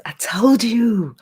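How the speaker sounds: slow, high put-on voice; new voice. Teasing the chat in her new voice, high and slow. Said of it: "New voice".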